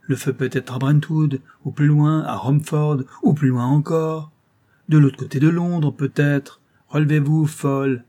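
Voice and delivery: exasperated mistress; impatient dismissal. A narrator's reading. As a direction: brush off her fears and order her up. Mistress dismisses the fear, orders her.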